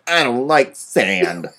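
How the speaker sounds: slow, lightly voiced brooding line; a hint of moody teen Anakin; Hayden Christensen Anakin. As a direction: drag it out sulkily. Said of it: "That's my Hayden Christensen Anakin impression".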